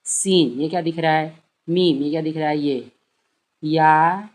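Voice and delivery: put-on coaxing a child. Mother coaxes a child to name letters, encouraging. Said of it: "बोले".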